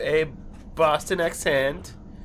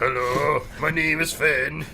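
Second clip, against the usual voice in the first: deepened voice; slower than usual. Pretend. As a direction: drop the voice down for a new man. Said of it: "I just did deepen it".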